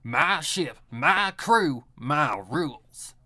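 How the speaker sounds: hammed-up southern accent, slowing right down on "my rules"; mock southern pirate. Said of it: "she's a pirate that talks in a southern accent".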